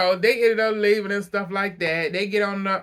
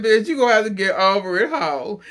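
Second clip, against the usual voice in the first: mock blunt retort; 3 semitones higher, 5 dB louder than usual. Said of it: "Mary said".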